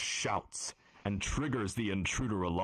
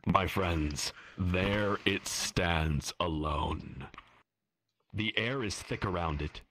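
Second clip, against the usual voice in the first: story narration. A narrator's reading. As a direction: set the scene like a game master. GM scene setting.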